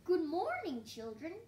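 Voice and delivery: loud, high teacher's greeting; magpie's big morning call, easing at the end. A narrator's reading. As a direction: call the class to attention. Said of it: "calls the magpie the next morning".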